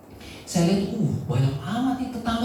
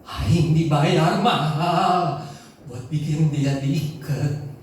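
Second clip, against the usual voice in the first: harsh Sundanese possessed voice; 3 semitones lower, much slower than usual. Retold or imitated. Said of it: "bahasa Sunda yang kasar sekali".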